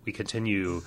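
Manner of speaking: hammed-up mystic seer voice; lightly voiced fortune teller. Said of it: "bad acting like that".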